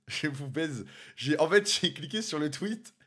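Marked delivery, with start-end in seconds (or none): 0.0-0.8 laughing. Real, not acted. Rit de sa propre mésaventure.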